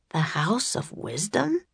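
soft, awed, rising question; breathed. A narrator's reading. Jack hears of the House of Wisdom, breathing it in soft awe. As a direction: breathe it out in quiet wonder. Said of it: "breathed Jack".

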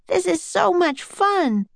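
high, drawn-out delight; excited delight. A narrator's reading. Excited child in rowboat.

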